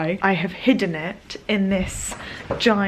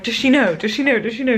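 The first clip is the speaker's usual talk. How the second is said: higher, quick, insistent asking; eager repeated question; 4 semitones higher, 5 dB louder, faster than usual. Retold or imitated. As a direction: keep pressing the same question. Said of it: "And I was like".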